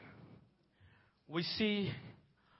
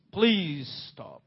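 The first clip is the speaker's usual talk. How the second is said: soft, lower repeat of a plea; hushed plea; 5 semitones lower, 6 dB quieter than usual. Acted. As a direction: let the plea drop low and quiet. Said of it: "the voice of the Lord came there".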